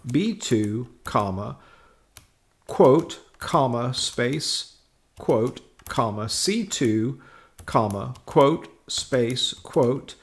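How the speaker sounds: slow, spelled-out formula dictation; dictating. Shown as a demonstration. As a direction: read each symbol out one by one. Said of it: "using the following formula".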